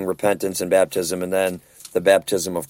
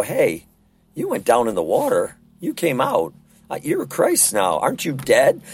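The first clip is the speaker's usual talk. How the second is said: mock challenge; 4 semitones higher than usual. Confronting a baptized believer who sins.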